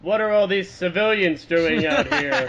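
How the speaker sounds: lightly put-on tough voice; tough mind voice. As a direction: send the thought with a bit of toughness. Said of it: "gonna put on a tough mind voice".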